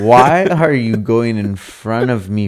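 loud, high mock scolding; mock angry. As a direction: chew out the friend, half joking. Retold yelling at friend driving.

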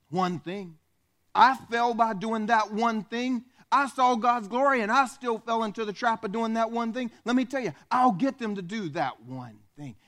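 lightly voiced power-hungry devil; scheming Satan. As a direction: gloat over the one thing. Preacher keeps voicing Satan.

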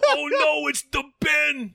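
very high, wailing fake terror; mock panic. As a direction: drag it out in a squealing pretend scream. Joins mock panic at Ben.

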